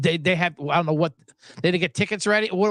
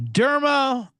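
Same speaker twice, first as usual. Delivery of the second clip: 1 mock Japanese accent; 7 semitones higher, 3 dB louder than usual. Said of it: "picked up on the accent".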